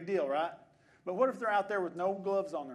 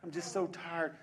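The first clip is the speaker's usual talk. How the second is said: weary churchgoer; 4 semitones lower than usual. Acted. Churchgoer to spouse about slipping home for a nap, mock weary.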